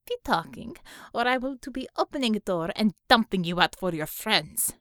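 lightly voiced Russian-sounding interrogator threatening a captive; tough interrogator, menacing. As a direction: threaten him in broken English.

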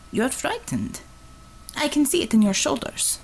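a lightly voiced Russian woman, blunt and cocky; a light Russian accent, teasing the nervous driver; Russian commissar voice. Russian commissar teasing her driver, in a light Russian accent.

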